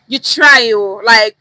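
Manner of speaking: "You try, oh" said loud with a sly, sarcastic lean; side-eye. Shown as a demonstration. Teacher shows a side-eye "You try, oh". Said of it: "I'm trying to give a side eye".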